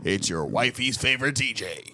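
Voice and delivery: radio DJ voice. Retold or imitated. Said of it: "you sound just like a fucking radio man".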